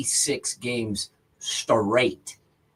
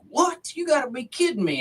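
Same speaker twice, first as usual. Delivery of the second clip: high, fast mock astonishment; shocked disbelief; 13 semitones higher, faster than usual. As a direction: squeak out the neighbour's disbelief. Neighbour's retold shocked reply.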